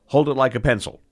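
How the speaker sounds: mock stern command; retold yelling. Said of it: "he yells at me".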